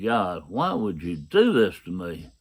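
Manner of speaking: understated anguished plea; pleading out loud. Retold or imitated. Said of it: "out loud".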